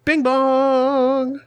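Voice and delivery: high, held-out chime call; Galt voice. Acted. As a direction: ring it out like a doorbell chime. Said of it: "That wasn't very Galtish".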